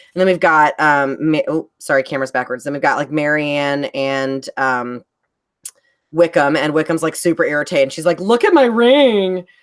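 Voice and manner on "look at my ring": put-on high, slow, loud, drawn-out basic-girl voice. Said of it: "'cause she's super basic".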